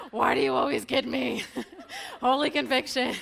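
loud laughing outburst, caught out; laughing exclamation. Real, not acted. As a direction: laugh it out like you've been caught. Caught out again, laughing loudly.

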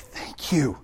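awed, whispered gratitude; awed thanks. Acted. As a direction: whisper it in awe. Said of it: "You're gonna be in awe of him".

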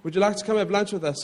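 quick amateur attempt at British; bad British accent. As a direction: try a British accent, not very well. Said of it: "I'll try to do a British accent".

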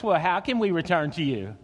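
lightly voiced sulky teenager; a hint of whiny teen pushback; mild mock teenager talking back; teenage voice. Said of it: "in your best teenage voice".

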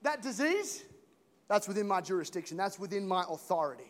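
interrupt, then settle into authority; Jesus claiming authority, loud hey settling down; Jesus taking charge. Retold or imitated. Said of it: "he's going".

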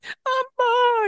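put-on very high, wailing child's call; a toddler begging for help; whining toddler. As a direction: plead like a little kid near tears. Crying toddler calls for her.

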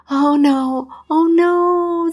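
dismayed doctor. Acted. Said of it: "the doctor said".

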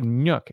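"milk" turned into "Nyuk"; short "Nyuk", like "nook" with a slight glide; toddler's mispronunciation. Retold or imitated. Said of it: "She says, like".

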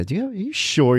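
mocking question. Mocking the phone guy.

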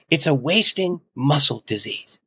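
slowly, deliberately retold bishop's announcement; slow it down, weighing each word as the bishop did; slow, deliberate pronouncement. Bishop announcing a diagnosis to the congregation, slow and deliberate. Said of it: "then he looked up and he said".

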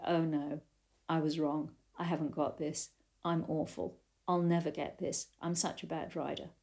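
soft, deflated self-reproach; despair. Retold or imitated. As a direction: sink into quiet defeat. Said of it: "the grumpiness or the despair".

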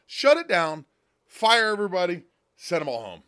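loud, fed-up command; angry shout. Real, not acted. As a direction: bark it out in disgust. Ranting at the government shutdown.

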